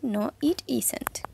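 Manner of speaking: very slow whispered No, it isn't; whispered slow answer. Shown as a demonstration. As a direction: breathe the answer out softly. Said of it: "Ustedes me tendrían que decir". (respuesta lenta en susurro)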